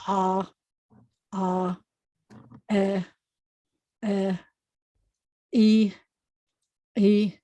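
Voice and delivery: ah, eh, e each with a throat catch; slow drill of ayin with vowels; guttural vowel series. Shown as a demonstration. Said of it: "practice the ayin with all of the vowels".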